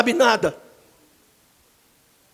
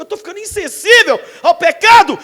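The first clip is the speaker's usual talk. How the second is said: loud high joke; 6 semitones higher, 11 dB louder than usual. Acted. Preacher joking loudly.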